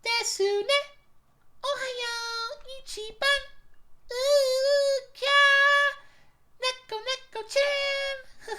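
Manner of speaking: very high squeaky anime voice. Shown as a demonstration. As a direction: pitch way up, cutesy anime character. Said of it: "Maybe I need to start doing the anime voice more".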